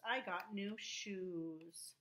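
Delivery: said very slowly and clearly; slow example sentence. Shown as a demonstration. Teacher to young pupils, very slow example sentence. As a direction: read the sentence slowly for children. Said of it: "example sentence for pupils".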